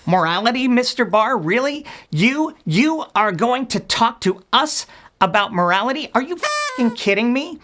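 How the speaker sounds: incredulous tirade that boils over; exasperated rant. Acted. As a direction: rant in growing disbelief, then explode. Mock-furious rant at Barr.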